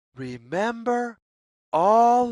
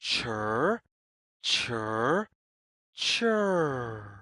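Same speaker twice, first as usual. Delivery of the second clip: squirrel chirr; 7 semitones lower, slower than usual. Shown as a demonstration. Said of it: "makes the sound".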